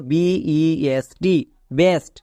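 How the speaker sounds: slow spelling, then বেস্ট; letter by letter, then the word. Shown as a demonstration. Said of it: "ই এর short sound একার হচ্ছে". (বানান করে তারপর বেস্ট)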